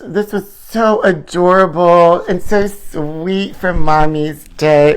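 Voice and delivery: slow, drawn-out mock mommy voice with a squeal; coming unhinged. Host signing off to fans, mock unhinged mommy. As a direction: let the sweet act crack into a laugh. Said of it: "I'm coming unhinged".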